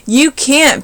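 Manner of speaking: high, loud bellow. A narrator's reading. Sammy bellows at Kevin, high and loud. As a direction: bellow it at full force. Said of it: "bellowed Sammy".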